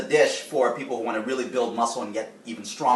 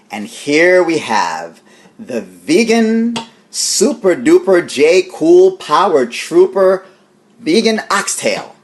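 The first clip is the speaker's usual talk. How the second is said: showman announcement; 5 semitones higher, 10 dB louder, slower than usual. Real, not acted. Grand announcement of the dish.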